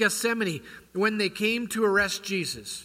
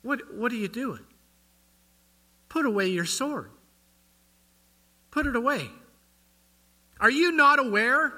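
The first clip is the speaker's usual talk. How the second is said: higher, pleading rebuke to Peter; voicing Jesus; 6 semitones higher than usual. Preacher voicing Jesus rebuking Peter, higher and earnest. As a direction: gently scold a friend who drew a sword. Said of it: "But what did he say?".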